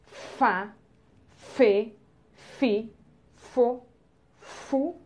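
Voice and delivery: "Fá, fê, fi, fo, fu" one by one, evenly separated; syllable drill. Shown as a demonstration. Teacher reads the syllables for pupils, measured drill. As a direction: sound out each syllable with a pause after it. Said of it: "É o mesmo som".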